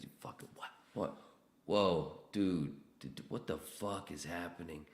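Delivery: high shocked outburst; can't believe he just got slapped; stunned after slap. Retold or imitated. Slapped by a coworker, high shocked disbelief.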